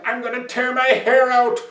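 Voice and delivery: high, loud frustrated outburst; exasperated king. A narrator's reading. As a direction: cry out at your wits' end. King exasperated by Vinko's success.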